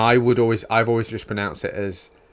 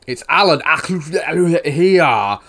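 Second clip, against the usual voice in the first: mock fantasy character voice; 7 semitones higher, 8 dB louder, much slower than usual. Mocking fantasy name pronunciation.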